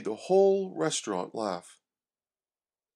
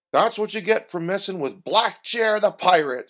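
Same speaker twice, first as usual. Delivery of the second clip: put-on loud, higher, gloating old sailor; gruff old fisherman; 6 semitones higher, 8 dB louder than usual. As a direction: crow about it like a hearty sailor. Bob gloats after the attack.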